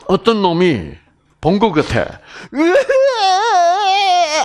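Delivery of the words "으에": high, long drawn-out mocking wail; jeering cry. Mirror voice jeering at the man practising smiles, mocking squeal. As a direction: jeer with a loud, stretched squeal. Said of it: "하고 막 비웃는 거야".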